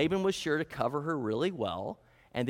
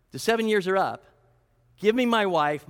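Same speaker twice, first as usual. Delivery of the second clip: pushy, louder demand; demanding Jacob; 3 semitones higher, 5 dB louder than usual. Retold or imitated. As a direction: insist on it like an impatient groom. Jacob demanding his wife.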